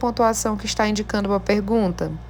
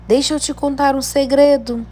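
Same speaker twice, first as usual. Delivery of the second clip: exclamatory tone; 3 semitones higher than usual. Shown as a demonstration. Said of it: "Eu utilizei o ponto de exclamação".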